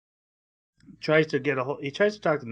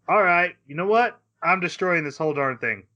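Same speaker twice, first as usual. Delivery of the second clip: mock fury; 3 semitones higher, 4 dB louder than usual. He snaps after she cries.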